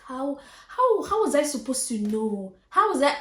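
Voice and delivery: rising, indignant self-defence; exasperated protest. Retold or imitated. Answering the friend who blamed her for the scam, exasperated.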